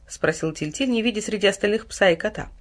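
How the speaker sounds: plain reading voice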